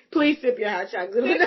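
laughing tease. Real, not acted. Teasing after his outburst.

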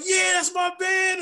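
high, slow, shouted hype for his man; hyped-up cheer. Retold or imitated. Fan on Twitter hyping up Nate Robinson, high shouted cheer. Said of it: "He's like".

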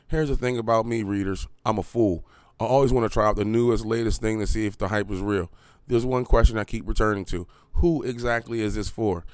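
steady reading voice, a bit flatter; article read aloud. Acted. Reading a Kotaku article to his viewers, even read-aloud. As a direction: read the review out plainly.

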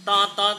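imitated honk, "tot, tot"; horn-like censor sound. Shown as a demonstration. Showing how drivers would pull over, imitated horn. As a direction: honk like a vehicle in a jam. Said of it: "kalau misalnya".

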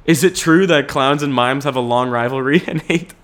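reading it out while laughing. Real, not acted. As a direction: giggle through the question. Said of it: "Someone asked the question".

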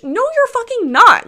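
sharp, high and loud denial; emphatic rebuttal. Real, not acted. Calling out commenters who pretend to be open-minded, loud and high. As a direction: shut the claim down hard.

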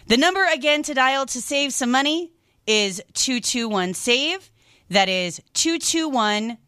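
upbeat radio host reading the number; radio host plug. Acted. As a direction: pitch the call-in number.

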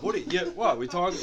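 ordinary delivery

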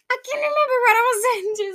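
high, fast, laughing through it. Real, not acted. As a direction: giggle out the confession. Laughing, forgot what she said.

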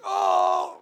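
high, laughing, squirmy voice of someone fully seen; exposed, laughing self. Pretend. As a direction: play it giggly and uncomfortable, like all the lights are on. Acts being truly seen by mentor.

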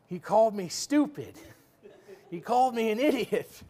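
mock aggrieved whine; indignant complaint. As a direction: complain like a wounded kid. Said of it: "I'm like".

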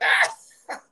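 unvoiced mock scream; imitated mom's outburst. Mom reacting to the comment, mock outburst. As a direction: cry out like an appalled mother. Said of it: "she's like".

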